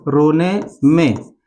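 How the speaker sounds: रोने में drawn out very slowly; रोने में, बहुत धीमा. Shown as a demonstration. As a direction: let रोने में sag and drag. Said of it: "तो मैं बता दूं".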